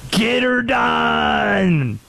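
slow, drawn-out Southern shout of the catchphrase; Southern accent. Retold or imitated. Mocking how overseas fans do Americans, in a Southern accent. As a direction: yell it like a hammed-up redneck Southerner. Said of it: "It's always the Southern accent".

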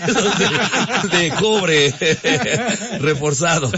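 laughing through the joke. Real, not acted. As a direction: crack up mid-sentence. Joke about drinking, laughing.

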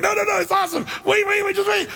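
bursting with glee, shouting to hold them back; hyped-up shouting. Retold or imitated. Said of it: "he's like".

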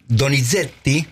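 "Donizetti" with the Z firmly stressed; Italian double Z. Shown as a demonstration. Doctor introducing the composer Donizetti, Italian double Z. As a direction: lean on the Z in "Donizetti". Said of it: "para enfatizar la Z".

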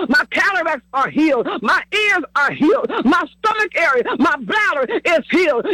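rhythmic, insistent healing confession; preaching declarations. Acted. Preacher leading the congregation in declarations of healing, rhythmic preaching. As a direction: declare it in steady punched phrases.

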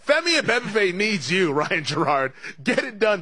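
half-joking pep talk; mock rallying plea. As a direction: urge a player on with a laugh in it.

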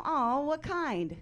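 high, slow cooing question; gushing coo. Retold or imitated. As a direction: coo it like cute news.

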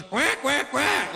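high-pitched challenging quacks; angry duck quacking. Acted. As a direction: quack like a drake squaring up. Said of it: "he goes".

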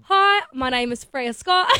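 put-on Aussie accent. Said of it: "how well do you do an Aussie accent?".

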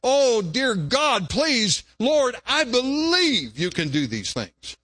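high, slow desperate plea; father crying out. Acted. A father crying out to the Lord, slow and high. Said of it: "He said".

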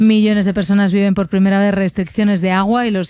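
brisk, even headline read; news read. Acted. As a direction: read it as a radio press review. Reads press review headlines.

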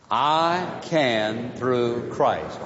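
very slow, word by word, leading the room; slow unison recital. Shown as a demonstration. Pastor leading the congregation in a slow unison recital. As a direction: lead the congregation through it slowly. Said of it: "Say it with me".

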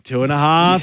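slow, stretched count; buy time between the numbers; lightly acted parent counting down; stalling parent countdown. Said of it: "your parents started to go".

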